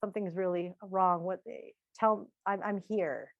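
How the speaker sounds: a husband soothing his upset wife; gentle empathy. Retold or imitated. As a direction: calmly reassure someone who is upset. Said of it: "my husband comes up to me and says".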